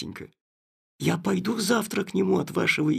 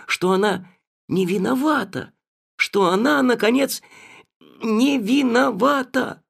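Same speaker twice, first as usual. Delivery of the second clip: rising plea; 5 semitones higher, 4 dB louder than usual. Acted.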